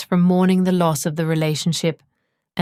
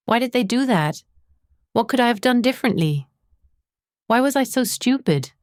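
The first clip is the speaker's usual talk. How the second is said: higher-pitched, lightly acted self-questioning; mild rumination; 5 semitones higher than usual. Someone reliving an old breakup, mildly ruminating. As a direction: voice ruminating thoughts a touch higher, understated. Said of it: "get sucked into ruminating about it".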